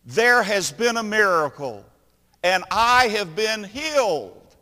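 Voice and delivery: ringing claim of healing; bold declaration. Acted. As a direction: announce the miracle with full confidence. Mister Bentley's bold reply.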